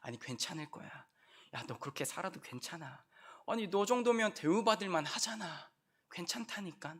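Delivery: quiet tempting devil; devil's soothing voice. Acted. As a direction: coax them softly like a tempter. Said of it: "마귀가 원하는 고백은요, 계속 우리한테 이것을 얘기해요".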